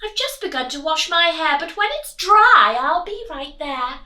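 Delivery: high, sweet, posh-lady voice; doting grand lady; Miss Hood. Acted. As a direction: coo at the pig. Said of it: "she said".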